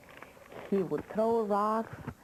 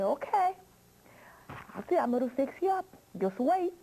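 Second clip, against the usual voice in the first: threatening witch; 6 semitones higher, faster than usual. Acted. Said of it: "she was so mad".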